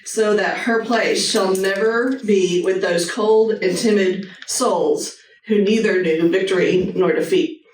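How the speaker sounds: slow, deliberate recitation; earnest quote reading. Shown as a demonstration. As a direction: read each phrase like it matters. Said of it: "but I'm gonna read it".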